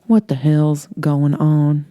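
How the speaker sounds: slow, deadpan calm; flat and calm. Acted. Holly covered in fish guts, flat calm question. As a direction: ask it dead calm after the blast. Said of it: "in a flat, calm voice".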